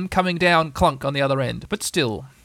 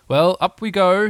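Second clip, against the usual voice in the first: slow, louder cheery heave; cheerful; 4 semitones higher, 5 dB louder than usual. Acted. Pooh hauling Piglet up, cheerfully. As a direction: cheer the lifting on, slowly. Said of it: "said Pooh cheerfully".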